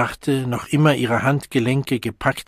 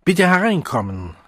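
calling out; 6 semitones higher, 3 dB louder than usual. A narrator's reading. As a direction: call out toward the door. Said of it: "rief er".

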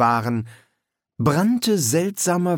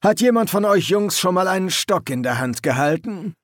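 raised, barking sergeant voice; gruff drill sergeant; 5 semitones higher than usual. A narrator's reading. Sergeant addressing the new recruits, gruff and raised.

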